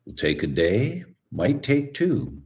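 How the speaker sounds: a slow, unhurried old chiropractor, lightly voiced; calm and unhurried, letting each phrase land; slow and present. Old chiropractor reassures young Tom about his wife, slow and calm. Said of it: "And that's how the guy talked. He was just very slow and present".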